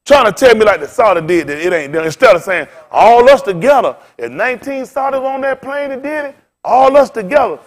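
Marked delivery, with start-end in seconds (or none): 2.9-7.6 mock proclamation. Mocking what whites should say.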